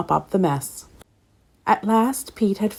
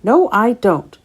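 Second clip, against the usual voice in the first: growled; 4 semitones higher, 6 dB louder, slower than usual. Acted. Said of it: "growled Pete Pepper".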